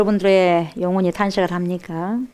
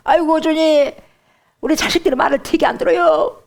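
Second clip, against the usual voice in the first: higher mock lament; complaining parent; 7 semitones higher than usual. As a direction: groan about the children to God. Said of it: "그때 울어요".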